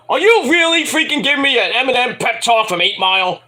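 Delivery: high-pitched incredulous question; mock incredulity. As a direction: imitate a partner who can't believe this pep talk. Mimics incredulous tag partner.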